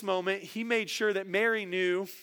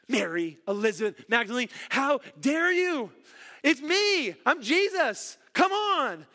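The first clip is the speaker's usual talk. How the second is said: hammed-up scold that climbs higher; a mock rebuke that rises as it goes; mock angry scolding; 4 semitones higher than usual. Preacher imagining Jesus rebuking Mary, a mock angry scold. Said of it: "That's what we might have done".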